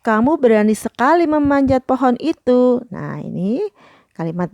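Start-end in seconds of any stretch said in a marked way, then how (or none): 0.1-2.9 higher-toned model praise sentence; high praise intonation. Shown as a demonstration. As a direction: praise read out in a higher pitch. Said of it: "kalimat pujian itu dengan intonasi yang nada tinggi".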